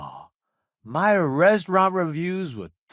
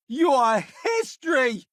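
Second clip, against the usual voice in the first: battle taunt; 9 semitones higher than usual. Acted. Combat taunt at an enemy.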